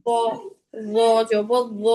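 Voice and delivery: thick, rounded র; full-mouthed emphatic letter drill on র; heavy letters. Shown as a demonstration. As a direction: round the lips on র জবর র. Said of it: "সবগুলা মোটা হরফই আমি".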